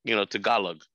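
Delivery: lightly put-on Filipino parent accent. Parent refusing to speak Tagalog in America, Filipino accent. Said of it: "great accent. Very close".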